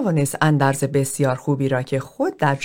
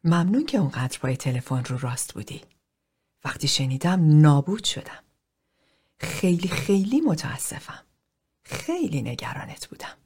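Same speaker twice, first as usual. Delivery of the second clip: soft, close whisper that fades to breath; whispered into his ear; 4 dB quieter than usual. Acted. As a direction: murmur it privately into his ear. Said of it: "زمزمه کرد". (زمزمهٔ آرام در گوش)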